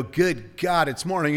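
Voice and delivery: understated complaint at morning; mock grumbling wake-up. Someone waking up to another morning, mild mock grumble. Contrasting two ways of waking.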